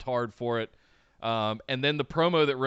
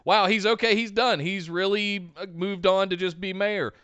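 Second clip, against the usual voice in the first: a light touch of surprise, raised; surprised; 6 semitones higher than usual. Retold or imitated. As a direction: voice mild disbelief. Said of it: "you're thinking".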